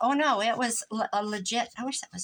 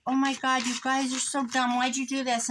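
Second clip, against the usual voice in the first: delighted mock scolding; 4 semitones higher than usual. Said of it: "I'm like".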